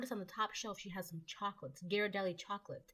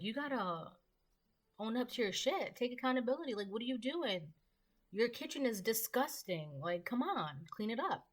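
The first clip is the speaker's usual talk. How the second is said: raised, scolding voice; retold yelling; 4 semitones higher than usual. In a dream, scolding the messy woman, mock angry yell. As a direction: scold her to own up and clean. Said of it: "like, yelling at her".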